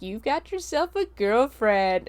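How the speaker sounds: slow, knowing fatherly tease; lightly voiced sly dad; teasing dad. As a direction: drag it out like a dad who caught his son. Dad teasing son about girlfriend.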